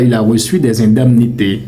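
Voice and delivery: indemnités said "in-dam-nités" with "dam"; wrong pronunciation. Shown as a demonstration. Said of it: "Et non pas". (indemnités prononcé à tort « dam »)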